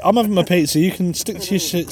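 mock Italian accent.

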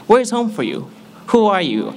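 high-pitched, keen new classmate; eager greeting. Retold or imitated. Students meeting a newcomer at orientation week, eager and high. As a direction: pitch questions up high, falling at the end.

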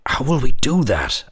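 put-on child voice. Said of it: "asked Aisling".

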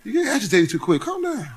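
soft calming. Retold or imitated. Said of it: "Holy Spirit said".

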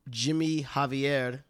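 slow, deliberate Spanish-accented name. Shown as a demonstration. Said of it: "Why you gotta say it like that".

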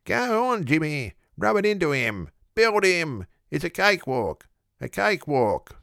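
high, excited yelling at the finish; deafening yells. A narrator's reading. Small man yelling in the oracle's ear, high and excited. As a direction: roar the jockey home. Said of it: "emits a deafening series of yells".

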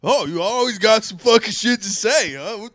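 high, loud acted outburst; indignant retort. Snapping back at someone in a family argument, loud indignant retort. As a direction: fire back like you're starting a fight.

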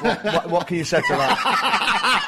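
slow, loud, laughing disbelief. Real, not acted. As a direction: laugh through the words in amazement. Stunned by the answer, laughing.

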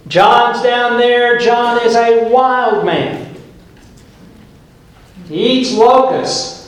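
high-pitched, worked-up preacher; excited pulpit storytelling; animated preaching. Real, not acted. Animated preaching about a wild man.

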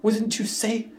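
high-pitched put-on German accent; Werner Herzog impression. Finishing the quote for his co-host, German-accented impression. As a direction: ask it as a German filmmaker. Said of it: "That's my Werner Herzog".

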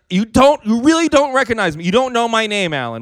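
lightly voiced hurt indignation at being forgotten; Sabrina, contained rage. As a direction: imitate a friend barely keeping her temper. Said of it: "she was trying to contain her rage".

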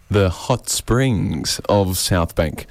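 slow, savoring mock-luxury tone; mock grand. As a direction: sell it like a fancy spa. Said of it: "as the locals like to call it".

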